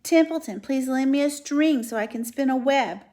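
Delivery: sarcastic, mocking the requests; disgusted mockery. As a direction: sneer out the list of orders. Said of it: "he said in disgust".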